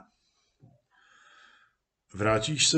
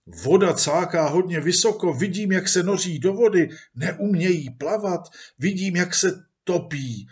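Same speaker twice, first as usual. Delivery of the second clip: higher, breathless telling of a wild scene; agitated; 4 semitones higher than usual. Acted. Man describes pigs plunging into the lake, agitated and high. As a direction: rattle it off as you watch it happen. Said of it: "Byl úplně rozrušený".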